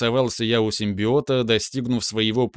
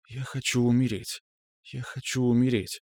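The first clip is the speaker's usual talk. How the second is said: softer, hypnotized whisper under breath; 5 dB quieter than usual. Acted. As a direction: murmur it like a trance. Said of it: "начал очень тихо шептать себе под нос". (тихий шёпот себе под нос)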